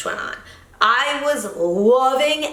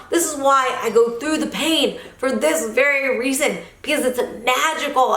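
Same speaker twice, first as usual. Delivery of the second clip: choked up; 3 semitones higher than usual. Real, not acted. Telling viewers why she trains, choked up. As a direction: voice breaking with emotion at the end. Emotional peak of training story.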